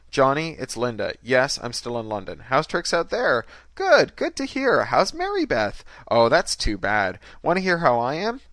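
high, chatty, swooping phone voice; brash woman on phone. A narrator's reading. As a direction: gush down the phone with loud emphasis. Woman's phone chat in story.

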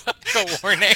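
warning tone. Shown as a demonstration. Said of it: "say it before you actually land the grab".

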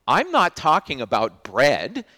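ready to lose patience with the disciples; exasperated Jesus. Retold or imitated. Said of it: "Jesus is looking at them and saying".

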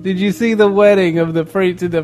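mock British accent. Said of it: "I got this accent".

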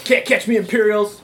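cocky parting taunt; taunting shout. Acted. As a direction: shout it back cheekily. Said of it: "then I'll say".

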